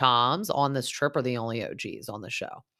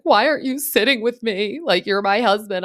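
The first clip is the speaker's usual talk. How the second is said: higher, louder put-on Australian accent; mock Australian accent; 9 semitones higher, 9 dB louder than usual. Scheana pleading with her husband, mock Australian accent. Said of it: "work on my Australian accent".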